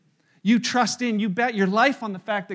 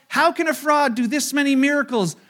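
incredulous crowd; 5 semitones higher, 5 dB louder than usual. Retold or imitated. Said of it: "They're like".

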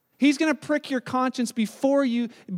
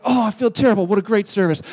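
mock churchgoer; 2 semitones lower, 5 dB louder than usual. Mocking churchgoers after harsh sermon.

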